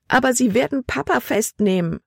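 put-on high, urgent girl's voice; alarmed protest. A narrator's reading. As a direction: plead in rising worry. (besorgt, hoch und drängend)

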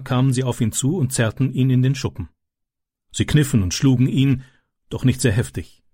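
plain reading voice

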